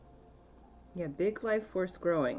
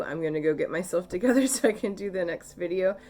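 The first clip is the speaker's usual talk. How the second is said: quick, louder, laughing through the words; 2 semitones higher, 6 dB louder, faster than usual. Real, not acted. A tearful reader laughing as she wraps up the video. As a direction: shake off the tears with a laugh.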